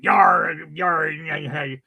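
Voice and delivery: pirate voice. Retold or imitated. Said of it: "the talk like a pirate".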